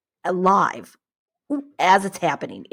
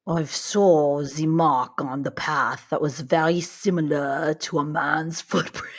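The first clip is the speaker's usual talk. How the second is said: bad Russian accent; 2 semitones lower than usual. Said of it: "This is the worst Russian accent ever".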